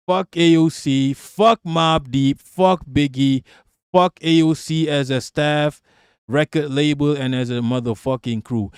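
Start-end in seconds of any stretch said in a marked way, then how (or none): 0.1-4.9 diss shout. Real, not acted. Diss rant.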